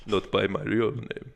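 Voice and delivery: slow, put-on Russian accent; lightly voiced Russian fugitive. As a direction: answer slowly with a hint of Russian. Repeats answer as the Russian fugitive.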